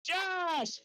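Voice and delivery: big shouted name call; announcer shout. Acted.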